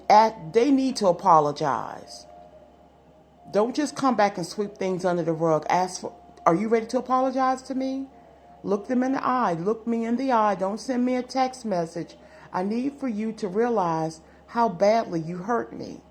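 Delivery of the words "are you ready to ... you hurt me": higher, quicker hurt partner demanding an apology; firm demand. Pretend. Hurt partner demanding an apology to the returning ex, firm and pointed. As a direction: stand your ground, make them own it.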